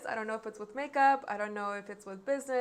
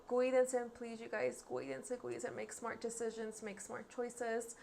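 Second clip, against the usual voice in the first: sincere plea; 7 dB quieter than usual. Real, not acted. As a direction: plead gently with viewers to stay safe. Heartfelt goodbye asking viewers to be safe.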